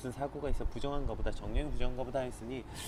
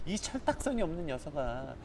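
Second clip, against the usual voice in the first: a lightly voiced father lecturing his foolish son; mild mock scolding of a foolish son; 3 semitones higher than usual. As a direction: chide him like a thoughtless boy. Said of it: "이러한 어투인 거죠".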